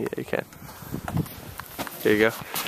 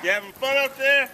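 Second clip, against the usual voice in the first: talking to a dog; 11 semitones higher than usual. Real, not acted. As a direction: coo at the dog.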